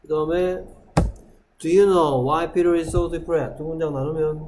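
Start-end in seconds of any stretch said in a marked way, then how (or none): 1.6-3.6 drawn-out, deliberate English reading; slow reading. Shown as a demonstration. Teacher modelling the English question for the class, slow. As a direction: read it slowly so they can follow. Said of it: "slow model reading".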